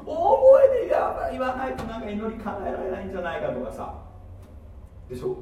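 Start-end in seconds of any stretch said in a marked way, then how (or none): 0.0-4.0 preacher hams up believers yelling at a distant God; mock loud praying. Congregation told about loud prayers, mock shouted prayer.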